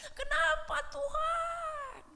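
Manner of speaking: high, drawn-out cry to God; an aching plea to heaven; anguished cry. Retold or imitated. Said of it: "saya teriak".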